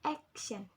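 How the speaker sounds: "Action" with AC leading, then a fall; stress on AC. Shown as a demonstration. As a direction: model "Action" with the beat up front. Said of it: "The stress at the ek".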